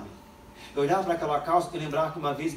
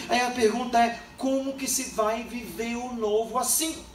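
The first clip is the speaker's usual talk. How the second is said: preacher exhorting the congregation, building; preaching; 6 semitones higher than usual. Acted. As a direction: drive the lesson home to the church. Continues preaching.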